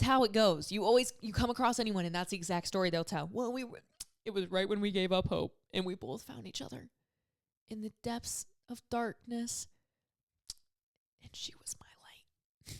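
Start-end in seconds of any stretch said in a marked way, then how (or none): 3.3-9.7 mock dramatic telling. Mocking couple's dramatic story. 11.2-12.8 breathy mock-romantic whisper, slow. Mocking a gushing couple at dinner, whispered.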